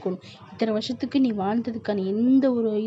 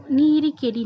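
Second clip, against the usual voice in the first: exasperated shout; 5 semitones higher, 7 dB louder than usual. Acted. Mother nags daughter to marry.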